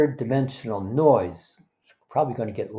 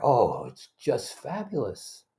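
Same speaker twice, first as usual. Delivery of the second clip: mock delighted; 5 dB quieter, slower than usual. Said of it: "the other person says".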